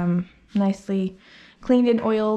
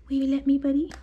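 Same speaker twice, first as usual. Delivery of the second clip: raised, sing-song ask to the dog; coaxing pet voice; 6 semitones higher, faster than usual. Real, not acted. Groomer coaxing the dog for his paw, high and sweet. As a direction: gently coax the pup to give a paw.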